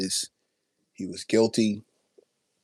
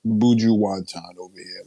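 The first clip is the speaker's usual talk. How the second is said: put-on Jamaican accent. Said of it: "if I did it".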